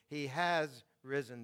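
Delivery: slow line with "has" stretched and emphasized; stress on HAS. Shown as a demonstration. Preacher restating the resurrection to the congregation, stress on "has". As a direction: lean on "has" and set it apart. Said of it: "notice the emphasis".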